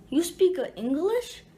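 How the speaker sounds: imitating a broken-English Asian accent, lightly; a mild mock Asian accent on the question. Guy in the hallway asks a first-grader, mild mock Asian accent. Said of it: "Like, in that Asian accent".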